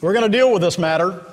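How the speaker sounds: lightly acted excited promise; excited Boaz. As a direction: urge her to stay, then hurry into the plan. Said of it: "he says excitedly".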